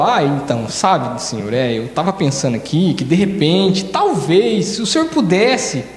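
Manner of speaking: hesitant rambling. Retold or imitated. Blind man rambling hesitantly before Jesus, slow timid mumble. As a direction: hem and haw timidly.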